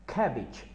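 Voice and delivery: कैबेज with a firm final j sound; correct English pronunciation. Shown as a demonstration. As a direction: end कैबेज on a pressed j. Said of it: "जी को जो है ज़ोर देना है".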